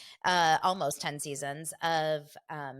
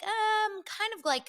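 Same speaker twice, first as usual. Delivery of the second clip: Jax imitation; 3 dB louder, slower than usual. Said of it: "Jax starts by saying".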